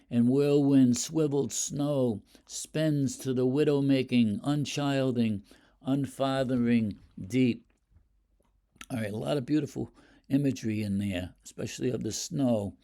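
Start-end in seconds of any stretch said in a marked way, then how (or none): 0.1-7.6 measured poetry reading; poem reading. Shown as a demonstration. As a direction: read the stanza aloud with care. Teacher reads the stanza aloud.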